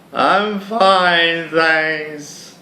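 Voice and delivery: quick nervous refusal. Acted. Hero turning down the stranger in a high, tense voice. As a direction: wave her off high and tense.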